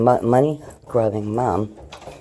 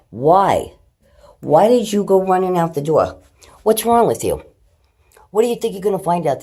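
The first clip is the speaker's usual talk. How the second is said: scolding; 8 semitones higher, 7 dB louder than usual. Real, not acted. Scolding the cat again.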